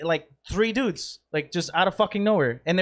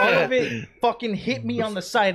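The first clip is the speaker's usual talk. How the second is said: laughing; 4 semitones higher than usual. Real, not acted. Laughing while telling a mishap.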